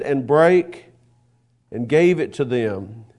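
measured, formal Bible reading voice; scripture reading. Acted. Preacher reading Luke to the congregation, formal and measured. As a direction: read the scripture aloud with solemn weight.

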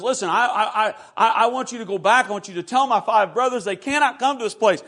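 preacher acting out a desperate plea; urgent plea. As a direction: beg insistently to send a warning. Rich man pleads from hell.

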